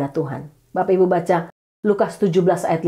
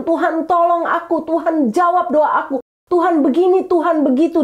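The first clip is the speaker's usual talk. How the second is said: crying out; 7 semitones higher than usual. Retold or imitated. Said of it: "berteriak keras di hadapan Tuhan".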